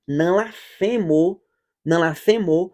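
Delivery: ordinary delivery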